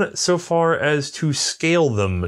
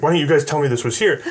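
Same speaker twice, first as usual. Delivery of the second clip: mildly indignant, quick retelling of a complaint; lightly imitated anger, spoken fast; retold annoyance; 3 semitones higher, faster than usual. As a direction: act out a friend's mock-mad question in a rush. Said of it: "so he got really mad".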